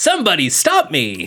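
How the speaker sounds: zany, imitated movie-villain voice. Announcing yourself as every villainous character he has played in cinema, do a villainous Jim Carrey character. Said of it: "as every villainous Jim Carrey character".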